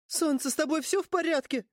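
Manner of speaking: put-on high, worried girlish voice; young girl voice. A narrator's reading. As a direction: fuss over him, anxious and high.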